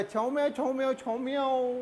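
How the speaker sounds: lightly put-on Chinese gibberish; mock Chinese. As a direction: imitate Chinese with nonsense syllables. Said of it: "Hindi में वो Chinese के साथ बोलोगे".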